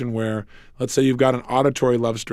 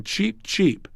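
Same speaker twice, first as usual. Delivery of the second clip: put-on baby turkey chirp; 5 semitones higher, 5 dB quieter than usual. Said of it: "sound of a baby turkey saying".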